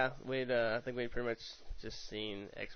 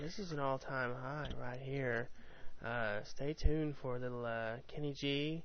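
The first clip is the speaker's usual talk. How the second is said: radio DJ voice. Pretend. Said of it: "I gotta get my radio voice on".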